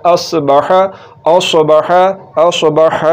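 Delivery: असबह with the ha vowel kept short; असबह, ह पर ज़बर छोटा. Shown as a demonstration. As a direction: say असबह, no stretch on ह. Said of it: "हा के ऊपर जो ज़बर है इसको लंबा नहीं करना".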